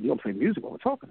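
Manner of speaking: quick question rising on TALKING; imitating a doubtful boss, brisk; retold doubting question. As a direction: query the odd idea, rising at the end.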